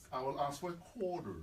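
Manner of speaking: put-on American accent on "quarter"; lightly Americanised demo. Shown as a demonstration. Host showing how he orders in America, American accent. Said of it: "I will speak the way they speak".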